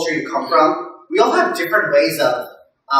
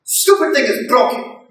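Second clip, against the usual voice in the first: raised, higher grumbling dad voice; fed-up dad; 5 semitones higher than usual. Retold or imitated. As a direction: whine that the stupid thing is broken. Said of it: "He's like".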